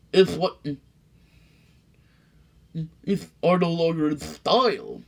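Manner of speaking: wink through the pitch; sly salesman. Acted. McBean luring the sneetches back, high sly salesman voice.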